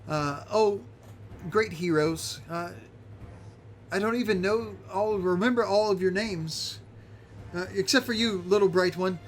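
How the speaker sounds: Greta's voice. Acted. Greta speaks to heroes.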